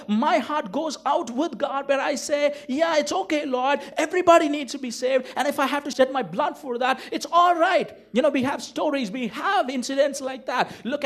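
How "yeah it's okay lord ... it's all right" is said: pitched higher, pleading and devoted; raised, fervent prayer of surrender; earnest surrendered prayer. Retold or imitated. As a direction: offer your life to the Lord, heart wide open. Preacher voices his own surrendered prayer.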